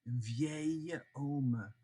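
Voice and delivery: "Un vieil homme" very slow, H silent, linked into "vieil". Shown as a demonstration. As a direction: draw out "vieil homme" with no H at all. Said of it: "The H, remember, is silent".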